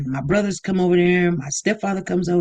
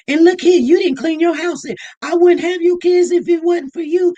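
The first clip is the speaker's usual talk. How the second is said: mock scolding; 8 semitones higher, 4 dB louder than usual. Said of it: "you don't be like".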